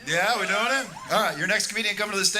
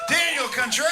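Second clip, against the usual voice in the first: emcee shout; 4 semitones higher, faster than usual. Acted. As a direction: shout him up to the stage. Host shouting next comic's name.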